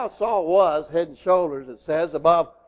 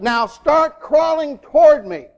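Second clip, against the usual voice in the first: firm fatherly order, a little raised; stern; 5 semitones higher, 3 dB louder than usual. Retold or imitated. Father directing his son to crawl to him, stern. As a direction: command the child step by step. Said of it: "very sternly he said to him".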